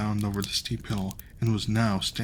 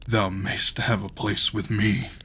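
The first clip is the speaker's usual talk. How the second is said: giant voice; slower than usual. Acted. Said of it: "said the giant".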